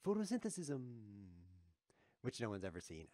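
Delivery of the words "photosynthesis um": put-on high-pitched kid voice, falling at the end; kid from a sitcom. Streamer quoting a TV kid's line, high kid voice. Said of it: "where the kid says".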